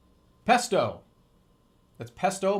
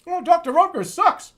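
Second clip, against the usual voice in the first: loud outburst; 12 semitones higher, 11 dB louder than usual. Real, not acted. Mocking a brand on stream.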